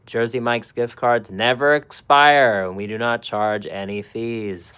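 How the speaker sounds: loud emphatic reading of the card; pointed loud reread. Shown as a demonstration. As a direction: read it back at them like they missed it. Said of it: "Again, I'll reread it".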